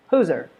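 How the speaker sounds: "Who's her" as whozer, no h; reduced who's her. Shown as a demonstration. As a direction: run "Who's her" into one. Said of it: "instead of saying".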